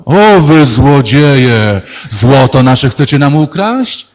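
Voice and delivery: mock outrage. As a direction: drag out the outrage at thieves. Golden people accuse Jacek, Placek. (udawane oburzenie, powolne i głośniejsze)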